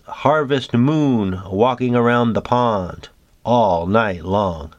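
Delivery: slow, measured poem reading; unhurried recitation of a moon haiku. Acted.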